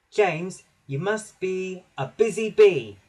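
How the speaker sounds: little engine peeping out an order. A narrator's reading. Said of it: "he peeped".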